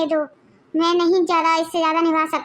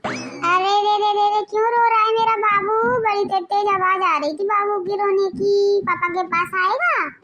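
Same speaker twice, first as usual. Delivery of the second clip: put-on soothing baby talk; 2 semitones higher than usual. Father cooing at the baby. (माँ का ऊँची सुरीली आवाज़ में बच्चे को चुप कराना)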